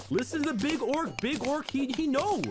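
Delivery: high, dumb orc voice saying listen to the big orc; mock orc voice. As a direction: play a simple-minded orc. Mock orc voice explaining orc thinking.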